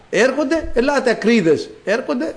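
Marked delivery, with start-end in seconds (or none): 0.7-1.7 high-pitched acted call. God summoning the reptiles, calling out. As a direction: summon them with raised pitch, not shouting. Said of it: "Φωνάζω".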